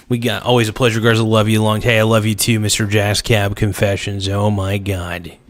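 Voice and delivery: ordinary talk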